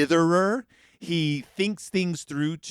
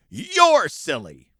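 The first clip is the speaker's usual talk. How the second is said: slow, louder mock yell; 6 dB louder, much slower than usual. Brother standing on his chair, mock yelling at sister. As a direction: lightly shout the insult, drawn out. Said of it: "yelling at her".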